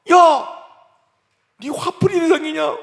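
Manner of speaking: high, loud indignant yell; angry rebuke. Acted. God rebukes a parent venting on a child, angry yell. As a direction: shout them down.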